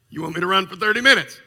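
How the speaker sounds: fast, disbelieving question; quick stunned patient asking the doctor; incredulous. Retold or imitated. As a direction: blurt it out in disbelief.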